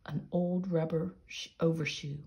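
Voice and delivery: unhurried storybook reading with lively dialogue; story narration. A narrator's reading. Narrator reading Peter Painter's animal story to listeners, storybook narration. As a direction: read a children's animal story aloud.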